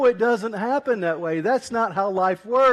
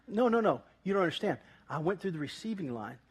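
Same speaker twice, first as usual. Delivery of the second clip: hushed disbelief; 4 semitones lower, 10 dB quieter than usual. Retold or imitated. Narrator refusing to believe caller.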